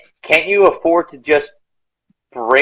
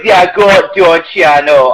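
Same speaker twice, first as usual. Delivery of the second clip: light Midwestern Wisconsin twang; a quick, jokey Wisconsin accent; 3 dB louder, slower than usual. Pretend. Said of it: "I don't know why I did a Wisconsin accent".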